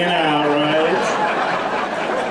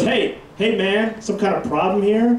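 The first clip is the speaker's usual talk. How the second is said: higher, swaggering security guard; guard's challenge; 6 semitones higher than usual. Retold or imitated. Security guard confronting him, mock tough and higher. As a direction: puff up like a rent-a-cop. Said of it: "the first one goes".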